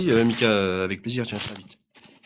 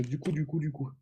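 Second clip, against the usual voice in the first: trailing off; 4 semitones higher, 6 dB quieter than usual. Real, not acted. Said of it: "je sais plus ce que je voulais dire".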